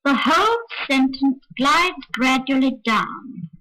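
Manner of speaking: descend from "whole", small lift onto "glides", then down; interrupted glide down. Shown as a demonstration. Showing the remedy for long sentences, a little rise on "glides" before falling to "down". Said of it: "said in a slightly different way".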